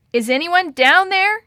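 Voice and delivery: high, loud shout downward. Acted. Kate calling down to the wreck, shouting. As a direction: call out over a storm. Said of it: "she shouted into the howling wind".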